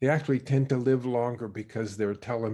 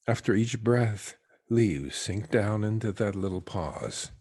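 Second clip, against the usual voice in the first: guided meditation. Real, not acted. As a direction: let each phrase settle downward into stillness. Leads a meditation.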